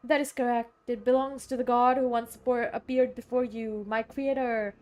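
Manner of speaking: lightly voiced formal oracle; solemn watcher. Watcher telling of its creator, mildly solemn put-on voice. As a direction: promise answers with a touch of mystery. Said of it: "why I'm talking like that".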